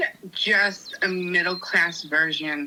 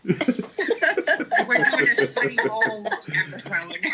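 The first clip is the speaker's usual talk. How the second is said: helpless laughter. Real, not acted. Host derailed by the episode topic, laughing helplessly. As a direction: wheeze it out between laughs. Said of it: "I can't stop laughing".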